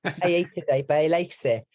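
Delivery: put-on copying a Cardiff kid's accent; Cardiff-accented mimicry. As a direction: echo it in broad Cardiff Welsh. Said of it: "do a real Cardiff accent".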